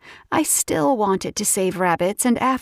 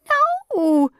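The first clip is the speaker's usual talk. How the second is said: shocked cry. Acted. Narrator reacting to pregnancy news with a shocked cry. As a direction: blurt it out in shock.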